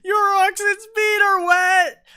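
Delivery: furious high yell, slow and hammed-up; angry shout. Ferryman shouting after the departing wagon, hammed-up angry yell. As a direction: shake your fist and bellow the threat. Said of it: "shakes his fist angrily and says".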